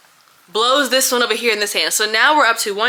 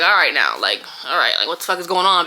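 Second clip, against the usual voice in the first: lower, firm man's voice; fiance stepping in; 3 semitones lower than usual. Retold or imitated. Fiance confronts the nurses poking his crying partner, low and firm. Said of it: "my fiance stood up, like".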